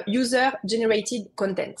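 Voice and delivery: slow, careful English-accented "User Generated Content". Shown as a demonstration. Trainer shows off the English term, slow English accent. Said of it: "avec un accent anglais magnifique".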